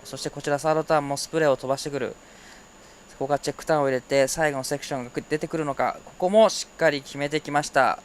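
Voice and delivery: rapid, breathless surf call; fast play-by-play. Real, not acted. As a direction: rattle off the live action. Switches to Japanese play-by-play.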